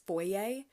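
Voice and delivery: foyer said "FOY-ay", ending in an open AY; foyer with a French-style "ay" ending; Canadian pronunciation. Shown as a demonstration. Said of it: "words that Canadians say".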